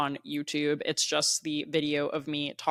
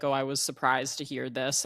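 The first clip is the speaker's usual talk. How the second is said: flat, deadpan, no pitch movement; monotone voice; 2 semitones lower than usual. Retold or imitated. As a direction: say it completely monotone. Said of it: "I'm saying it in a very monotone voice".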